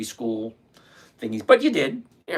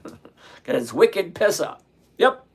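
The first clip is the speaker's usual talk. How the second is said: put-on Boston accent; 4 semitones higher, 3 dB louder, slower than usual. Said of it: "that's Bostonian for you".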